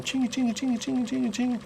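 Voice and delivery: imitating a rattling lure, soft and high; rattle trap noise. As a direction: mimic the lure's jingle under your breath. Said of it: "They hear that rattle trap coming".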